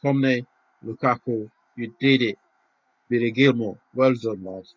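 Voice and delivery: calling out the players loudly; loud cheering. Real, not acted. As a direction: hail each player in joy. Cheering players after the win.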